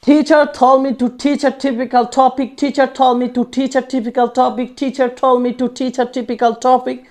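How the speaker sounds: slow, steady, repeated; slow repetition drill. Shown as a demonstration. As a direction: repeat it slowly again and again. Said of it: "তিন চারবার বলার practice করি". (ধীরে বারবার অনুশীলন)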